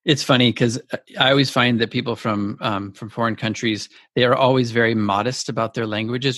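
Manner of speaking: normal talking voice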